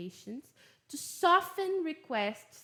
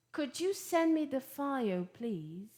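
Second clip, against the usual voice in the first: polite request; 2 semitones higher than usual. Shown as a demonstration. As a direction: ask courteously, easing down on please.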